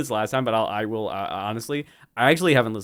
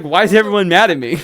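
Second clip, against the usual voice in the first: mock whine; 5 semitones higher, 9 dB louder than usual. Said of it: "He's like".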